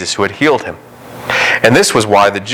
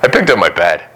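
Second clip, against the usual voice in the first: healed man's reply. Retold or imitated. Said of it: "I love the guy's response".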